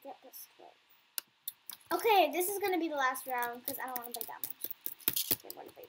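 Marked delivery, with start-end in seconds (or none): 0.0-0.8 soft unvoiced whisper. Real, not acted. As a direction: breathe it while sneaking close. Sneaking near seeker.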